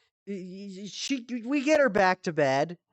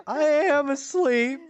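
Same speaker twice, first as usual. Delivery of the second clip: high mom voice; 8 semitones higher than usual. Retold or imitated. Voicing sleepwalking mom.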